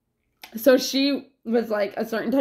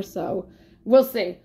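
ordinary delivery

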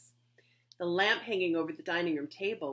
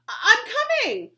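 high, loud eager call; 16 dB louder than usual. Acted. Betsy calling after the fleeing girl, loud and eager. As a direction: shout after her that you're coming.

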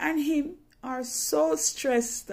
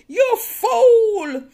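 much higher and louder, scolding yell; cursing; 8 semitones higher, 8 dB louder, much slower than usual. Retold or imitated. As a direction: point and curse in her face. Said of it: "That's how she point in my face".

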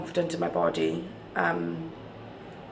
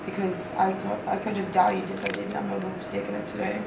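groggy from anesthesia. Real, not acted. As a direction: talk like you're still half under. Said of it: "I'm out of it".

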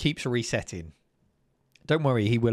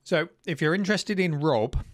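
talking with a mouth full of food; words pushed around a mouthful; 6 semitones higher than usual. Real, not acted. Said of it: "I am talking with my mouth full".

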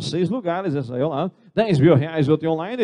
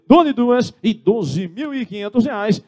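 auctioneer call; 6 semitones higher, slower than usual. Real, not acted. Auctioneer calling going twice.

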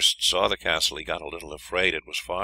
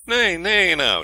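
high-pitched loud call; 12 semitones higher, 8 dB louder, slower than usual. A narrator's reading. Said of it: "she called out".

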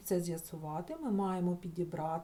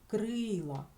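"Крила" with a clear, lengthened first vowel И; stress on И; 3 semitones higher than usual. Shown as a demonstration. Teacher confirms the stressed sound, emphasised И in "Крила". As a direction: lean on the И in "Крила". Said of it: "на нього падає наголос".

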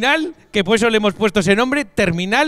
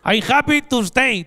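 stilted English; 2 semitones higher, slower than usual. Retold or imitated. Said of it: "lo que le falta decir".

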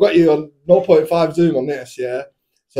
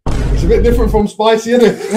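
laughing; 5 semitones higher than usual. Real, not acted. Laughing while eating spicy sweets.

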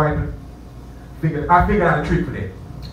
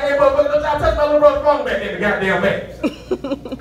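mock stage yell; 9 semitones higher than usual. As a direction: bark it at the whole room. Yelling at crowd from stage.

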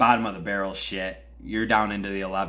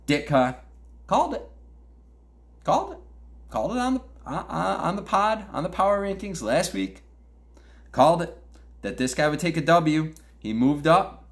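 gloating excitement; 8 semitones higher, 3 dB louder than usual. Real, not acted. Gloating over a correct prediction.

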